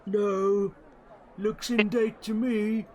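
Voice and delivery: put-on high, loud stubborn old man; high confident old gnome voice; old gnome Silas. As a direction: insist the date is fine. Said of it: "he's like".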